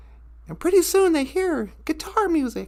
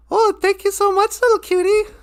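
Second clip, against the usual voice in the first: higher, friendly thanks; friendly Great Spirit; 4 semitones higher than usual. Acted. Guitar player thanking little cutie, friendly higher voice. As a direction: lift the voice in cheerful gratitude.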